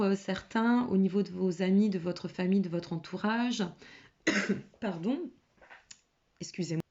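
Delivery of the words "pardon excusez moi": hoarse after choking on a swallow. Real, not acted. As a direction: cough through the words, recovering. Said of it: "j'ai avalé de travers".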